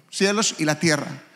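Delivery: ordinary talk, nothing marked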